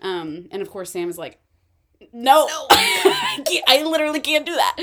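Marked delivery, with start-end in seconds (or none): 2.1-4.8 high squeal of a laugh, then a quick rush of words; laughing refusal. Retold or imitated. Retelling Sam refusing Ava's offer, laughing. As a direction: laugh through the no, then rattle off the rest fast.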